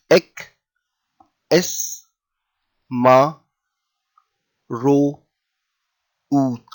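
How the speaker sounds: "Ek, es, ma, ro, ut" each alone between long pauses; syllable by syllable. Shown as a demonstration. Teacher helping someone read, "Ek, es, ma, ro, ut" broken into syllables. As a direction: sound out "Ek, es, ma, ro, ut" one piece at a time. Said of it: "each one is pronounced as a separate syllable".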